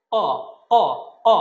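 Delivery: ক short, from the root of the tongue; high, back sound. Shown as a demonstration. Teacher isolates the letter, short back-tongue ক. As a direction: pop out ক from deep back. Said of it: "একটু high sound হবে".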